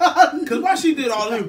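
slow, loud through laughter; laughing. Real, not acted. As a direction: ask while cracking up. Laughing while talking.

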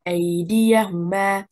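"أيديهما" with stress on the second beat of "ديهما", so the dal sounds separate. Shown as a demonstration. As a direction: lean on "دي" in "أيديهما". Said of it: "stress on the second حركة".

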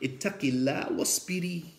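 low, soft Arabic admonition; retold gentle words; gentle counsel. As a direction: console softly, as if from behind her. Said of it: "walks behind her and gently says".

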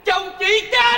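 very high-pitched repeat of the news; comic high-voiced astonishment; stunned echo. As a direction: echo the shocking news in a squeal of disbelief. Lặp lại tin chồng chết.

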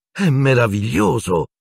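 high, slow delighted exclaim. A narrator's reading. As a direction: Hermione gushing with forced joy. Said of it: "esclamò Hermione".

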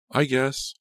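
high, dismissive reply; eye-rolling. A narrator's reading. Laura replying to Martha on the phone, dismissive. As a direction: toss it off with an eye-roll. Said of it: "I could picture her rolling her eyes".

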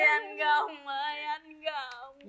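slow call fading away softly; too-quiet mourning call. Acted. Wife calling her dead husband, fading lament. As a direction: let the drawn-out name die away. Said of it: "nói lớn lên".

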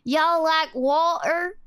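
slow Southern-British blend with a T in water; Southern-British accent. Shown as a demonstration. Streamer testing the blend, slow Southern-British accent. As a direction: drawl it, keeping the T in water. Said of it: "Why does it sound like that?".

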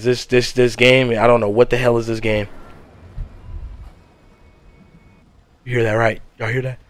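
low, soft scared whisper; whispering while hiding. Real, not acted. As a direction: hush it, she's close. Hiding from the ghost.

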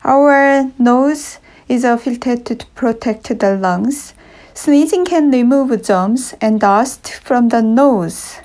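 a lightly voiced talking nose; nose character voice.

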